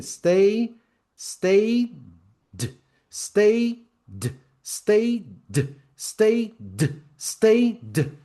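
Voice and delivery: high rhythmic "stayed", the final d detached; "stayed" drilled like a train gathering pace. Shown as a demonstration. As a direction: chant "stayed" with a separate little d, gaps closing. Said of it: "vamos subir no trem".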